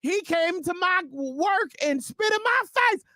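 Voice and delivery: high shrieking caller voice. Acted. Caller bragging in radio game.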